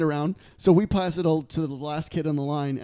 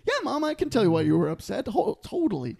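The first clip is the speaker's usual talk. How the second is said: put-on understanding kid; 5 semitones higher than usual. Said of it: "I was like".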